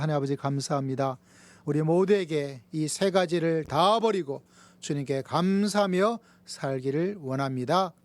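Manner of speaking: formal prayer in a strong, steady voice; closing prayer. Real, not acted. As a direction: lead the church in earnest prayer.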